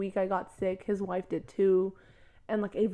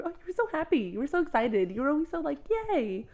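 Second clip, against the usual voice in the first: higher-pitched mock cheer; happy gushing; 6 semitones higher than usual. Classmates recalling a happy schoolmate, mock gushing. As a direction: imitate classmates gushing about how happy someone was. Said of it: "was I a happy person".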